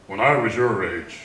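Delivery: a hint of an old-timer's lecture, a little slow; old person. Mocking how old people talk, a lightly voiced old-timer. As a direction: put on a lightly voiced old-timer's When I was your age. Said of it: "start talking like an old person".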